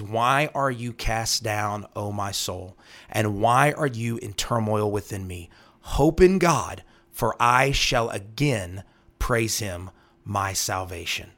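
slow, solemn reading of the psalm; scripture reading. Acted. Host reading the psalm to listeners, slow and solemn. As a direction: let each line of the verse land slowly. Reads psalm verses aloud.

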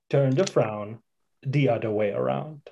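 lightly attempted Jamaican accent. Trying out a cartoon crab, half-hearted Jamaican accent. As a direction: have a tentative go at a Jamaican accent. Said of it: "Doing a Volkswagen commercial right now".

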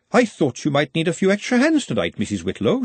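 high-pitched, sugary politeness; sweetly helpful, lilting up high. A narrator's reading. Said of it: "she said sweetly".

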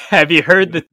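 a loud, hammed-up Australian accent; doing a bad Australian accent. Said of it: "Probably not the best Australian accent".

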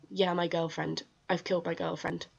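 imitating a casual, unbothered confession; understated, as if giving routine details; matter-of-fact. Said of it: "being so matter of fact about it".

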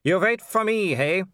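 a quick urgent call from a character; high-pitched urgent character line. A narrator's reading. Character voice in narrated scene.

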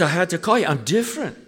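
imitating an overjoyed Glasgow pastor on the phone; excited Barry. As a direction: gush it out like a pastor who's been changed. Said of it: "He says".

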